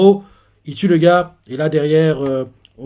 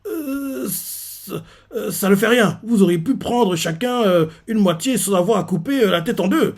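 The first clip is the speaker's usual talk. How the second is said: nervous; 5 semitones higher than usual. Retold or imitated. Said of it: "il a des sueurs froides".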